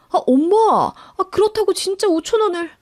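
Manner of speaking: high-pitched indignant outburst at his mother; exasperated son blowing up on the phone; angry husband. Acted. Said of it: "화를 내며 급히 전화를 끊으려".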